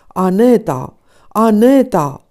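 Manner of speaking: calls out for his wife, loud; husband calling his wife aloud; calling loudly. A narrator's reading. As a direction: shout her name across the garden. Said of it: "strigă el cu voce tare".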